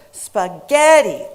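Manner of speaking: "spaghetti" as spuh-GET-ee, middle syllable loud and long; loud standard "spaghetti" with GET punched; center syllable stressed. Shown as a demonstration. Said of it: "center syllable was pronounced louder, longer".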